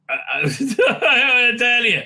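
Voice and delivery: loud, high laughing protest; flustered laughing. Real, not acted. Vlogger flustered by a caller mid-recording, laughing protest. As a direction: protest helplessly through real laughter. Flustered by repeated phone calls.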